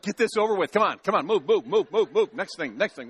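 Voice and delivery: half-laughing mock impatience, pushing someone along; impatient mock hurry. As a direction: hurry them along, chuckling at yourself. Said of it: "you're just like".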